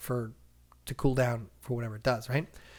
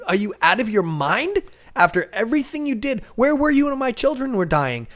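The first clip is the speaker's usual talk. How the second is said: high, loud enraged yelling; furious shouting; 9 semitones higher, 9 dB louder than usual. Acted. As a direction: scream your grief and rage at them. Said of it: "He's losing it".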